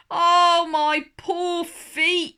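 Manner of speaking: high, drawn-out moan over sore feet. A narrator's reading. Mister Clumsy moans to Little Miss Sunshine about feet, high and pained. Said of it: "he moaned".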